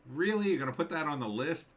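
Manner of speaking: high, loud disbelieving really; can't believe they listed it; incredulous surprise. Real, not acted. Scoffing at a list of Irish movies, incredulous. Reacting to Star Wars on list.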